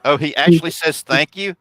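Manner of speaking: high amused disbelief; genuinely surprised, pitch jumps up. Real, not acted. Surprised at cat saying thanks.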